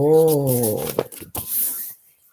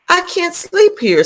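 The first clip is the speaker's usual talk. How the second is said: high, whiny ladybug; 13 semitones higher than usual. A narrator's reading. Teacher voicing the dizzy ladybug, high and whiny. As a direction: whine it up high. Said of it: "said the lazy ladybug".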